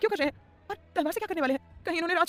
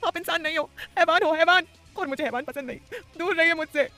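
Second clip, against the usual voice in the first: high, much louder scared defiance; defiant outcry; 8 semitones higher, 7 dB louder than usual. Acted. Sanam shouting at Adhir to stay away. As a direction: cry out that he is a monster.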